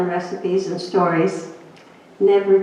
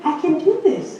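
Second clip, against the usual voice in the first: insisting; 10 semitones higher than usual. Retold or imitated. Retold plea to husband.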